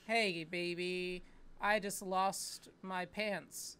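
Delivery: slow, drawn-out sleazy flirt; cheesy pickup line.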